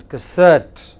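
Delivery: "cassette" as kuh-SET, first syllable barely there; weak first syllable. Shown as a demonstration. Teacher corrects the class's word, stressed on second syllable. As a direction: hit SET in "cassette", swallow the start. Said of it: "The first syllable is hardly heard".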